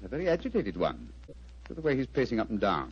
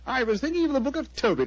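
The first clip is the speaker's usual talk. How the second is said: amused; 11 semitones higher than usual. Acted. Holmes amused, explaining his laugh.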